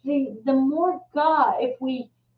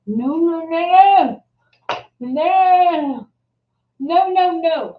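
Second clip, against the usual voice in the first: insistent rising no, no, no, louder on the middle ones; firmly cutting off her tears; retold firm no; 3 semitones higher, 6 dB louder, slower than usual. To a crying friend at the gym, an insistent loud no.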